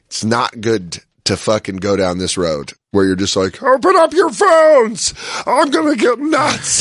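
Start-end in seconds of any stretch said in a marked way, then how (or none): 3.6-6.8 high hammed-up yelling rant; mock rant. Podcast host mocks a ranting comic, high mock yell. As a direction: play a frothing lunatic screaming at the crowd. Mocking an angry ranter.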